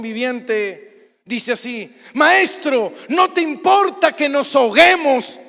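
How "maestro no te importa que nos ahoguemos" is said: angry shout. Acted. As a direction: shout the reproach over the storm. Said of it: "Y gritaron".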